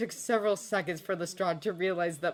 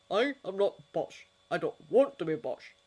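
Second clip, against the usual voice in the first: mildly indignant gripe; griping; 3 semitones higher, 6 dB louder than usual. A narrator's reading. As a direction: protest the label, miffed. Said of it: "Lestrade grabbed".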